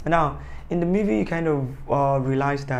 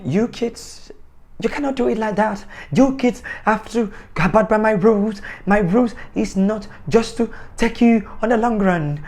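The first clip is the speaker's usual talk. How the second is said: badly done British accent, higher; a rough British father voice, raised and louder; 7 semitones higher, 5 dB louder than usual. Vlogger imitates the British father scolding kids, British accent. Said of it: "I did it badly".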